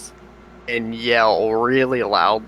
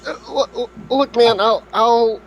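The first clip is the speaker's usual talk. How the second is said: high, pleading character voice; nervous apology; 8 semitones higher, 3 dB louder than usual. Acted. Adventurer pleading with the angry farmer, high and flustered. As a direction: beg forgiveness in a squeaky panic.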